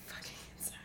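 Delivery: hushed curse; whispered swear. Real, not acted. Telling parents to stay inside, whispered curse.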